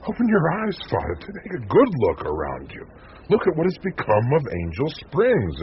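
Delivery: pleading anger at the priest's blindness; heated outburst. Acted. Reporter angrily confronts the priest.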